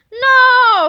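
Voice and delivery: furious loud "No!"; a robot villain's furious scream. A narrator's reading. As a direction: scream it out in frustration. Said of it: "screamed Super Mega Tippy".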